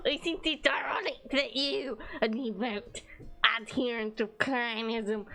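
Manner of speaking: arrogant voice. Acted. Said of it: "a really arrogant voice".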